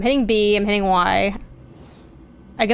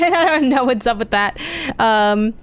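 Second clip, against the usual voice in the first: ordinary talk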